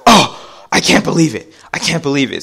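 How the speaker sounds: high, loud mock outburst easing off; freaking out. Son mimics mom spotting Steve at basketball, freaking out. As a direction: imitate a frantic, disbelieving mom. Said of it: "she starts freaking out".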